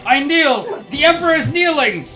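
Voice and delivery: loud, high hammy declaration; hammy shout. Pretend. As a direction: overdo the kneeling. Voicing Emperor.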